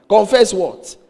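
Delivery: loud incredulous question through laughter; laughing disbelief. Retold or imitated. Reacting to the pastor's demand, loud laughing disbelief.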